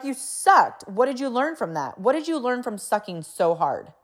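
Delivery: mock tough-love. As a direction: imitate a parent cheerfully grilling a kid. Blunt parent talk acted out.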